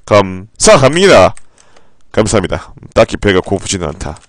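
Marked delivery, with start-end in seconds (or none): 0.1-1.4 1 drawn-out thanks. Real, not acted. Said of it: "별풍선 구십 개".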